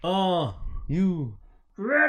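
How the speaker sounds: playful drawn-out ready call; hammed-up, stretched call. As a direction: stretch it like an announcer, then pop up on "ready?". Repeats question, hammed up.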